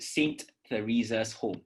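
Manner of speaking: Saint with a clear T and TH. Shown as a demonstration. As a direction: say Saint Teresa's with the T. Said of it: "This is how you pronounce it".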